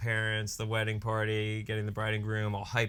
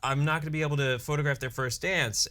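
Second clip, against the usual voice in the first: higher, hurried mock fretting; retold freaking out; 4 semitones higher, faster than usual. Photographer telling the DJ her camera failed, retold freaking out. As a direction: imitate a flustered photographer, pitch raised. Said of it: "she's freaking out because she's like".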